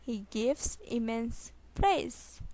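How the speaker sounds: slow, separated words; slow repeat. Shown as a demonstration. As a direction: pause before the final word. Teacher repeats sentence slowly. (धीरे, रुक-रुक कर)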